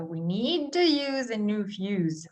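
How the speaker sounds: model sentence. Shown as a demonstration. Teacher reading a model sentence for learners. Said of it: "you guys try first".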